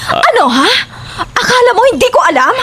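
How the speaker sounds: jealous rage. Acted. Jealous wife accuses husband of affair.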